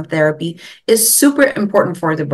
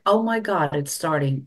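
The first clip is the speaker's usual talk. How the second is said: quiet realization; 7 dB quieter than usual. Retold or imitated. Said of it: "my light bulb went off".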